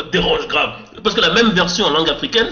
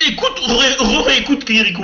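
laughing; 7 semitones higher than usual. Real, not acted. Teasing friend about Kirikou dub.

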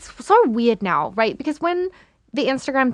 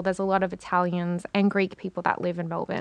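whispering; 3 semitones lower, 6 dB quieter than usual. Real, not acted. Unvoiced whisper.

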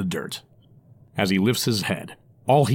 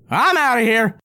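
high urgent goblin; hurried goblin voice; 12 semitones higher, 4 dB louder than usual. Acted. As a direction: blurt it as a fleeing goblin. Goblin character voice.

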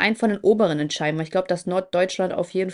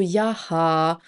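meme imitation; 2 semitones lower than usual. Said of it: "So wie Goretzka. Kennst du dieses eine Meme?".

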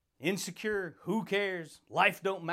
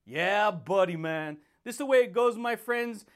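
hyped catchphrase; 4 dB louder than usual. Acted. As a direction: hype the audience up. Shouted catchphrase to viewers.

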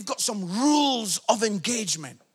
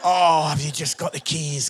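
sheepish retold request; 7 semitones lower than usual. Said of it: "That is the walk of shame".

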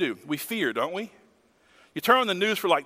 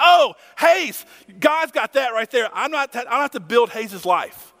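excited outburst; 3 semitones higher, 6 dB louder than usual. Retold or imitated. Recalling her own excited reaction.

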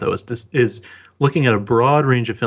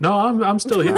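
talking through a held-back laugh; words breaking with a giggle; stifled giggles; 9 semitones higher than usual. Real, not acted. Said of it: "I'm just trying not to laugh".

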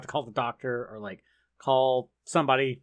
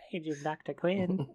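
slow, drawn-out mock hospital page; mock pager announcement; 3 semitones higher, 5 dB quieter, slower than usual. Paging doctor over the hospital intercom, slow and mock-formal. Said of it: "That was weird".

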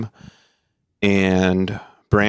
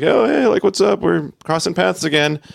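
much higher, squeaky mock excitement; overeager greeting; 11 semitones higher than usual. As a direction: play your younger self, starstruck and gushing. Retelling his eager greeting.

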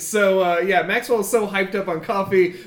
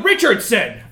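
raised, higher summoning call; mock yell; 4 semitones higher, 5 dB louder than usual. Boss summoning his goblins, a mild yell with raised pitch and level. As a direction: call the last underling out by name. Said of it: "he yells".

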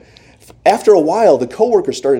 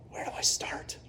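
whispered, lost and overwhelmed; panicked whisper; 16 dB quieter than usual. Retold or imitated. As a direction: breathe it out under your breath in panic. Panicked new barista asking coworkers.

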